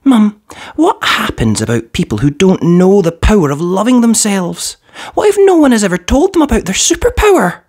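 put-on a girl asking her mum, rising up in concern; worried little girl. A narrator's reading. Hallie asks her mum about unloved people, high rising child voice. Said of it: "She said".

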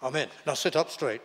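a brisk, dismissive schoolmaster, rushing through; mock the bored teacher who wants the prayer over; old schoolmaster. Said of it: "sound just like my old schoolmasters".

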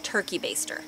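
soft, matter-of-fact husband quote; calm. Retold or imitated. Wife quotes husband's idea in the emergency, calm and soft. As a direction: drop it quietly, totally unfazed. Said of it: "Jason is so calm".

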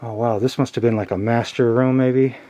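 ordinary talk

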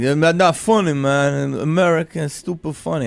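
heckler impression. Heckler voiced in story.

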